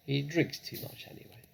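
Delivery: whispered aside to herself; muttering to herself. Acted. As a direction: mutter it under your breath. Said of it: "speaking to herself now".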